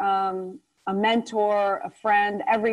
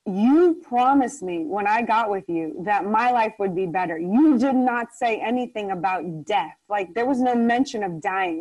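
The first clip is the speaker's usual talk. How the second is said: defiant retort. Retold or imitated. To her shaken husband, a defiant insistence. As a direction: insist you can't be beaten. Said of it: "I said".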